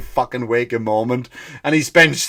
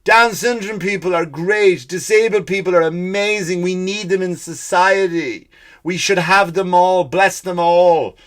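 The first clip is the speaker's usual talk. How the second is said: higher-pitched mock preachy proclamation; mock yelling; 4 semitones higher than usual. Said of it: "just yelling at people".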